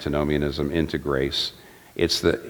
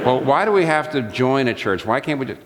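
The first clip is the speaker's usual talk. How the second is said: mock questioner; 8 semitones higher than usual. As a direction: play the eager asker, pitched up.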